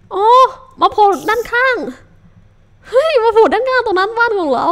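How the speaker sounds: high, loud panicked calling out; alarmed shout. Real, not acted. Player spotting a mob beside the house, alarmed shout. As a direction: yell the warning in a rush.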